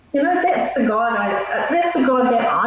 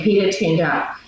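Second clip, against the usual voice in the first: New Zealand accent; 5 semitones lower than usual. Shown as a demonstration. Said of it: "and I'll say it like a Kiwi".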